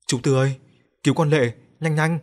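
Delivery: panicked report. Acted. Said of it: "chạy vào hốt hoảng khai báo".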